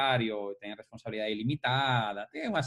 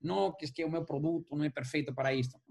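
whiny excuse-making voice; whiny complaining; 2 semitones higher than usual. Retold or imitated. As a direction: moan like a complainer. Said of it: "Cara, isso é mimimi".

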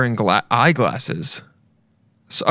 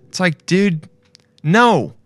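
higher, slower, fed-up rant; exasperated rant; 5 semitones higher, slower than usual. Real, not acted. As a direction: let it out, annoyed. Ranting at young people.

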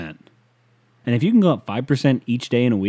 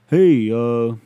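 Mike McCarthy; 8 dB louder than usual. Retold or imitated. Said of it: "that's Mike McCarthy".

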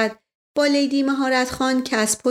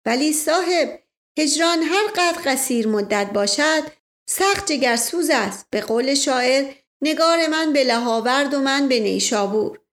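put-on Indian-accented Persian; 4 semitones higher than usual. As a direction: play the polite Indian sardar, a touch of Indian accent. Indian man quotes a poet.

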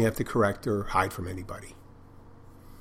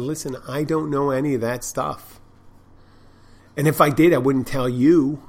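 rising, louder, stern brush-off; firm refusal; 4 semitones higher, 3 dB louder than usual. Retold or imitated. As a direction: shut them down firmly. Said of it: "And I said".

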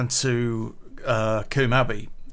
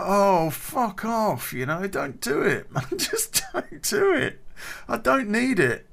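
slow laughing plea; laughing protest; 8 semitones higher than usual. Real, not acted. Ken begs the guy not to, laughing. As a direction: laugh through the words. Laughing while retelling reply.

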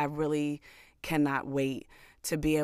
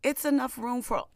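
sassy self-talk; 7 semitones higher than usual. Retold or imitated. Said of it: "tell yourself".

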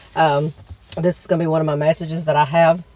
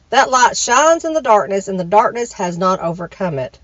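scripture reading. Shown as a demonstration. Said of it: "Let me give you a scripture".

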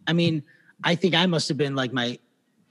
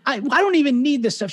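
imitating sad Lynn; 10 semitones higher than usual. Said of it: "she's so sad".

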